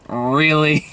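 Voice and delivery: drawn-out "Really" at normal pitch; last, lowest step of repeated disbelief; deadpan disbelief. Acted. Third, lowest of three reactions.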